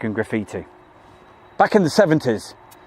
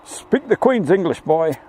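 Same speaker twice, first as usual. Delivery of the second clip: mock stern elder; 6 semitones higher than usual. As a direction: scold him like a prim old schoolmaster. Mock scolding from an imagined elder.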